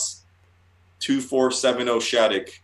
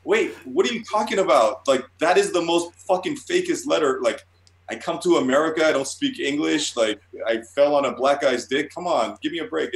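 higher-pitched retold arguing back; incredulous protest; 5 semitones higher than usual. Artist retelling his protest to the editor, incredulous. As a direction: plead the obvious, mildly exasperated.

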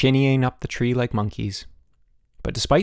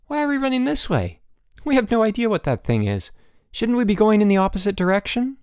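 high-pitched, anxious protest; alarmed cry; 10 semitones higher, 3 dB louder than usual. A narrator's reading. Boots balking at running towards an unknown thing, crying out. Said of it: "he cried".

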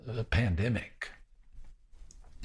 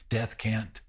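ordinary delivery

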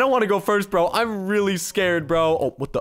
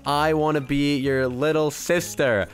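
slow, lower typing-out voice; dictating while typing; 5 semitones lower, slower than usual. Real, not acted. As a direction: say it slowly as you type. Types chat message aloud.

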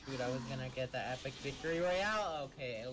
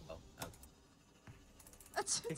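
deflated; 8 semitones lower, 6 dB quieter, much slower than usual. Real, not acted. The trick fails.

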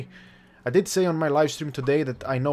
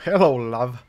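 1 loving wife; 2 semitones lower, 6 dB louder than usual. Acted. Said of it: "voicing wife greeting".

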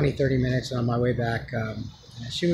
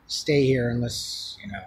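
retold gentle refusal, tailing off softer; gentle letdown; 2 semitones lower, 3 dB quieter than usual. Man tells woman she can't stay, retold gently. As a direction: ease them into a no. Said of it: "trying to be as gentle as possible".

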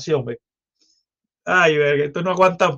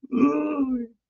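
mock disgust; 8 semitones higher, 5 dB quieter than usual. Mock reaction to ugly politician.

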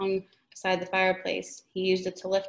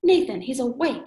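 loud, high alarmed call; old woman calling for Nathan in alarm, loud and high; alarmed cry; 5 semitones higher, 6 dB louder than usual. Acted. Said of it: "she cried".

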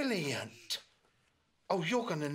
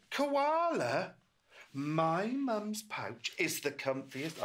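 calling out; 3 semitones higher, 4 dB louder, slower than usual. Acted. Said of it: "little Roo had to shout".

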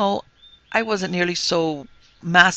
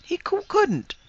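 stammering; slower than usual. Acted. Wish stammers.

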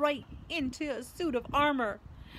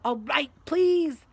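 loud, slow, higher grudging plea; exasperated surrender; 5 semitones higher, 8 dB louder, slower than usual. A narrator's reading. Filch yielding to Peeves, loud exasperation. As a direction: give in furiously.

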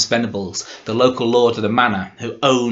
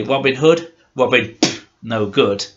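dismissive scoff; 4 dB louder than usual. Retold or imitated. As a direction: wave him away with a pff. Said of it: "we'd say".

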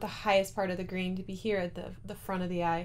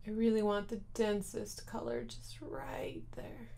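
whisper; 2 semitones higher, 6 dB quieter, slower than usual. Real, not acted. Concentrating on precise placement.

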